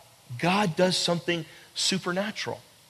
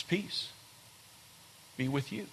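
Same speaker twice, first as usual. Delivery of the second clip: hushed blessing; 6 semitones lower, 17 dB quieter than usual. Acted. Jesus' blessing repeated softly.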